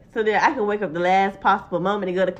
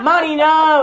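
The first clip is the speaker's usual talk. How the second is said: urgent warning; 4 semitones higher, 6 dB louder than usual. Retold or imitated. Trying to stop a punch.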